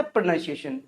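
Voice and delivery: प्रोनंसिएशन softly as pruh-NUN-see-ay-shun; correct pronunciation. Shown as a demonstration. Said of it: "क्या होता है?". (प्रोनंसिएशन में "नन" बोलें)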